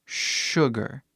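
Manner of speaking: sugar said with a soft sh at the start. Shown as a demonstration. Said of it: "Este é o som".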